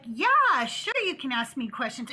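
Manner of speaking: lightly mock their very nice act; put-on niceness. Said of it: "starting to act very nice".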